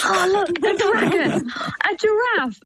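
high, drawn-out gasp of pretend amazement; feigned wonder. Mum distracting her child at the plane window, feigned wonder. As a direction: point out a marvel to a small child, playing it up. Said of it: "I just pretend I can see things".

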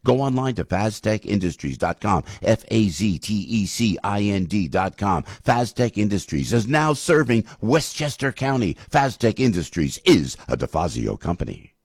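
brisk radio ad read, numbers spelled out. Acted. Host to listeners, reading the dumpster sponsor ad. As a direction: sell it like a live radio spot.

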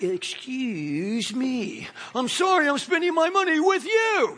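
entitled customer losing it, from drawn-out to shouting; indignant customer. Retold or imitated. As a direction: play the offended customer, winding up into a huff. Mocking an entitled restaurant customer.

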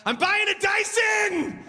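high, slow, triumphant yell; triumphant shout. Retold or imitated. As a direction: shout it like you just won the jackpot. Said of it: "and I went".

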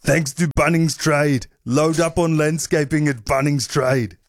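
put-on slow, heavy Austrian accent like Schwarzenegger. Host reads sponsor line to co-host for guessing, slow mock Austrian accent. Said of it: "That's Austrian".

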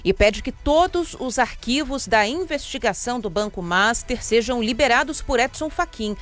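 brisk, even headline delivery over music; news headline read. Acted. Radio host reading the day's headlines to listeners, crisp news read.

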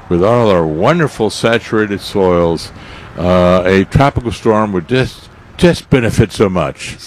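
dry sarcastic praise. Real, not acted. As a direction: say it as deadpan irony. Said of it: "that's sarcasm, folks".

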